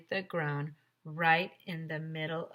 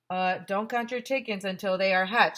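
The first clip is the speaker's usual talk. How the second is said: put-on British accent; 6 dB louder than usual. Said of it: "said the Guinness lady".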